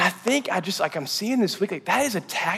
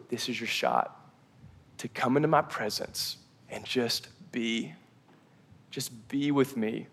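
soft, low retelling of a gentle whisper; imitowany Boży szept; 4 semitones lower, 10 dB quieter than usual. Retold or imitated. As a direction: voice God's whisper softly, without fully whispering. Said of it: "where God's gonna whisper".

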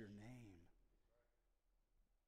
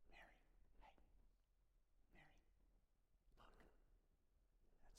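tender name; 22 dB quieter, much faster than usual. Retold or imitated. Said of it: "the way a person says somebody's name".

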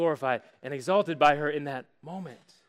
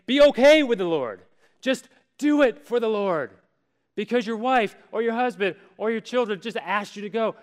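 dutiful half-hearted; 5 semitones higher, 5 dB louder than usual. Pretend. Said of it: "it doesn't say".

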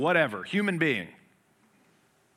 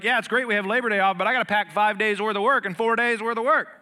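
mock stressed complaint; 8 semitones higher, 8 dB louder than usual. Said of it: "So you're like".

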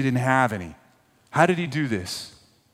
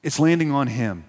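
a hint of Moses scolding, higher; lightly voiced Moses chiding grumblers; exasperated leader to the grumblers; Moses rebuking; 5 semitones higher, 3 dB louder than usual. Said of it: "He's like".

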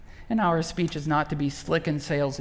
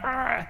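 frustrated growl; 7 semitones higher than usual. Retold or imitated. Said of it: "we're like".

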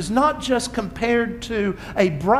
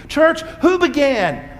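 raised, slow call-and-response question; calling out to congregation; 5 semitones higher, 3 dB louder than usual. Real, not acted. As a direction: call it out to the room. Preacher calls question to congregation.

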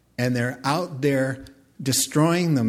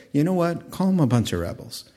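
mock blunt scolding; 4 semitones higher, faster than usual. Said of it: "when God tells the pastor to say".

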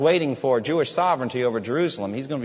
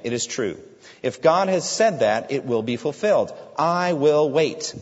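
resolute believer; 3 dB louder than usual. Acted. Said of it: "a justified man talks like this".

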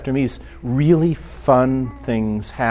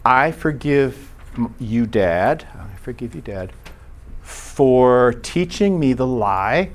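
tender prayer; slower than usual. Retold or imitated. Acted forgiveness prayer to father.

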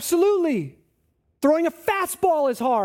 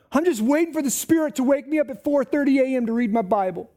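mock lazy excuse; faster than usual. Mocking lazy believer's excuse.

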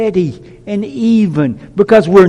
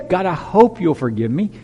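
unsure, hesitant request; timid hope of forgiveness; doubtful plea. Shown as a demonstration. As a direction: ask it as if you're not sure. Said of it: "he didn't say".

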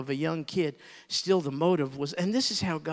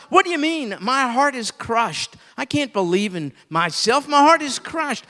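higher, pleading voice of a crushed heart; anguished plea; 8 semitones higher, 7 dB louder than usual. Retold or imitated. Preacher voicing a broken believer, anguished and pleading.

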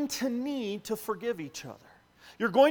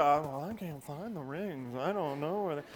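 mock excuse; 7 semitones lower, 3 dB quieter than usual. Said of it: "Don't give me the".

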